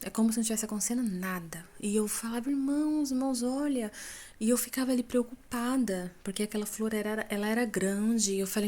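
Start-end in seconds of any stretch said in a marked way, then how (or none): 2.5-3.9 raised, higher urgent call; calling out urgently. Retold or imitated. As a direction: try to get them to listen. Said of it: "E eu gritava com eles".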